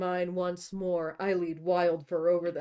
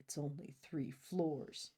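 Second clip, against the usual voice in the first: low, soft mutter under the breath; 3 semitones lower, 10 dB quieter, slower than usual. Acted. Grey mutters to her in the lift, low and soft. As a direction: keep it low, half to himself. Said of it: "I mutter".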